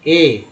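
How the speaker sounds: ए as a standalone vowel; the E of fect said as ए; vowel sound demo. Shown as a demonstration. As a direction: sound out ए on its own. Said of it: "उसका उच्चारण ए के रूप में".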